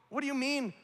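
high-pitched mock bafflement; incredulous, high question; baffled reaction. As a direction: act out puzzled disbelief, pitched right up. Acting out our baffled reaction.

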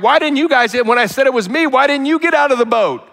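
high, loud mock rebuke of the disciples; exasperated teacher voice; Jesus scolding. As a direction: scold them for staying in the boat. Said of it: "I'm like".

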